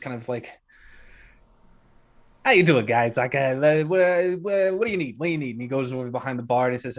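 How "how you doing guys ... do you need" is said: lightly voiced harried barkeep greeting customers; a hint of a frazzled bar owner; flustered barkeep. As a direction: stammer through a hurried welcome.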